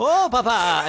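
high, sighing "Oh, papa"; mock breathy girl. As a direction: coo it like a swooning girl. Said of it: "if you just heard".

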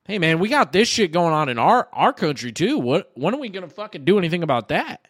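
a faint Southern twang on the quote; lightly Southern-accented rhetorical question; slight southern accent. Retold or imitated. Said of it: "you had, like, a little southern accent".

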